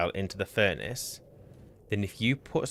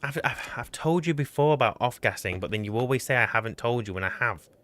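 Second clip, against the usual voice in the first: higher, whining complaint; whiny voice; 4 semitones higher than usual. Real, not acted. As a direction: whine it out in protest. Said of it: "Stop your whiny fucking voice".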